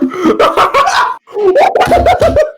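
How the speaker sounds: long high-pitched cackle; high laughter. Real, not acted. Gamer cracking up at a friend's nickname, high laugh. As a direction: let a squealing laugh run out. Group laughing at Joseph Char.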